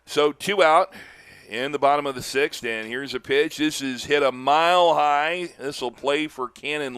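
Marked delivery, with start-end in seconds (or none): 3.6-5.5 excited call. Real, not acted. Calling a high fly ball.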